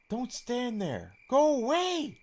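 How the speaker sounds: put-on high girlish voice, slow then a loud shrill go away; flustered girl shouting. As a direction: shoo him off in a panic. Lucia shoos Hero away.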